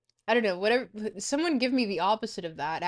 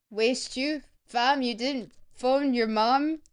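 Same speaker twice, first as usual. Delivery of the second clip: bad Toronto accent; 3 semitones higher, 4 dB louder, slower than usual. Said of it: "I don't know how to do a Toronto accent".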